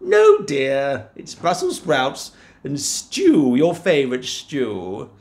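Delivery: high, slow coaxing; smooth it over quickly; soothing wife. Acted. Wife covers.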